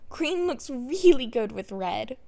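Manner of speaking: a delighted, unsettling tease; giddy Toga. Acted. Toga teasing Izuku among blood.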